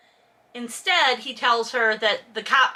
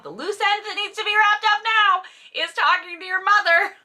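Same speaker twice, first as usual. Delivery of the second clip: emphatic; 9 semitones higher than usual. Real, not acted. Emphatic rant.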